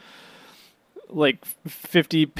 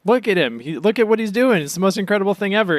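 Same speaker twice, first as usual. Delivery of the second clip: doting cat owner; 6 semitones higher, faster than usual. Retold or imitated. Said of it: "You're gonna be like".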